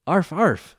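high, loud mock bark; barking like a dog. A narrator's reading. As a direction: yap it out like a dog. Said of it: "Joey replied".

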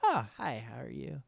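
put-on baby voice. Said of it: "he goes".

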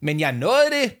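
high-pitched relieved announcement; squeaky triumphant cry; triumphant call. A narrator's reading. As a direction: announce it proudly, just made it. Jama shouts on returning.

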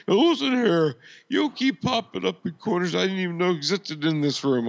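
a hammed-up Death telling him off; mock Death scolding. Mocking Death as he scolds Bookman in a high voice.

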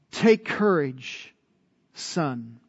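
slow, softening on the last word; affectionate. Retold or imitated. Jesus to the paralytic he calls son, affectionate. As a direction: say it as tender encouragement, trailing low. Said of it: "It's a term of affection".

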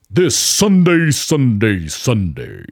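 booming, slow Sunday Sunday Sunday; monster truck announcer. Shown as a demonstration. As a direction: hype it like a monster truck rally ad. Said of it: "Oh, I can do that too".

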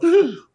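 sharp, high, loud mock gasp; shocked gasp. Imitating a churchgoer shocked by their own curse word, mock gasp. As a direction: gasp as if caught cursing. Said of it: "And you go".

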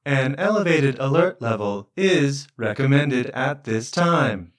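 slow PA announcement; calm loudspeaker advisory; through a megaphone. Pretend. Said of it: "public loudspeaker".

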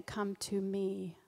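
slow, gentle call; tender invitation. Acted. Pastor gently voicing Jesus calling people to him. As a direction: say it slowly and tenderly.

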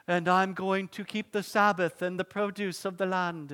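mock British accent for a small child's vow; lightly hammed-up British; bad British accent. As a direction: put on a terrible British accent. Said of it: "I took a British accent".

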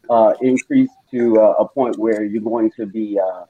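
doctor breaking bad news to patient, low and grave. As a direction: deliver the diagnosis soberly. Doctor gives grave diagnosis.

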